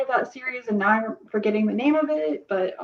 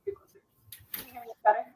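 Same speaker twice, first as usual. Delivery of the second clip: muffled mic. Real, not acted. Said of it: "it just sounds a little muffled".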